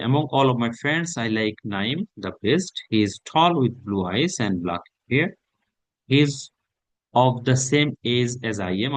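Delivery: slow, deliberate reading of a sample answer; slow model reading. Acted. Teacher reading a sample answer to students, slow and deliberate. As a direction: read it out slowly for students to follow.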